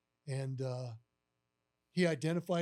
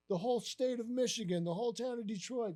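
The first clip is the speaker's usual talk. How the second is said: imitated gushing, higher pitch; Jim Campbell; 6 semitones higher than usual. Boss going on and on by phone, excited. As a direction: keep piling on the praise. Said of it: "going on and on".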